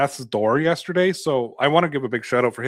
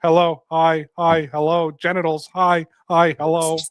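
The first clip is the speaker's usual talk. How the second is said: chat spammer; 3 semitones higher, slower than usual. Retold or imitated. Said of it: "idiots in the chat that are just like".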